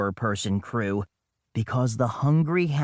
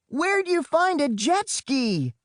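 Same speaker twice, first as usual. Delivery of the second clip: much higher, raised call; hollered; 12 semitones higher than usual. Acted. Boy hollers to his sister on the jet ski, raised call. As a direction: shout the question across the water. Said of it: "I hollered".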